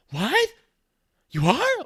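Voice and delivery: stunned disbelief; shocked. Retold or imitated. Woman shocked to learn the officer is police, high and loud.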